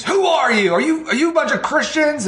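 high-pitched imitation of an outraged yell; mock scream. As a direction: screech it as the hostile young lady. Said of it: "this younger lady screams".

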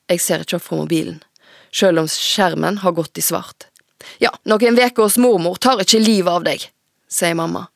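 put-on steady, measured reading of a teen novel; story narration. A narrator's reading. Author reading her own novel aloud to the host. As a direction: read the chapter aloud to the audience.

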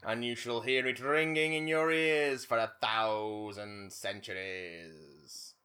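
grandiose. Pretend. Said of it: "I was being somewhat sarcastic".

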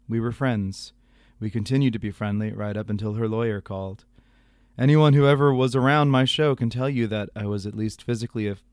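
measured, low radio storyteller impression; Garrison Keillor. Host reading the broadcaster's apology email, Keillor impression. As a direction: read it as a deliberate folksy host. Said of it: "do my appropriate, uh, Garrison Keillor voice".

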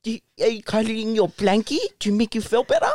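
lightly put-on baby talk. Comforting best friend over his blankie, baby voice. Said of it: "do the baby voice".

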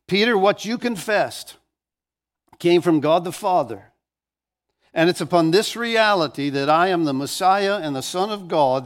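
preached paraphrase in Jesus' words, pitch lifted; emphatic proclamation. Acted. Jesus answering Peter's confession, emphatic proclamation. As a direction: proclaim it firmly, phrase by phrase.

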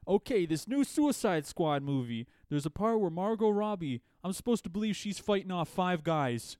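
high, loud mocking radio host. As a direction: ham up a cheesy radio DJ. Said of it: "they're talking about, like".

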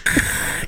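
unvoiced mouth-made rummaging sound; imitated rummaging noise. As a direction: imitate noisy rummaging in the fridge. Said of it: "You just hear a bunch of".

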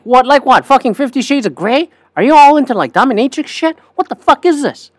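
high-pitched retold disbelief; incredulous outburst. Retelling own incredulous reaction.

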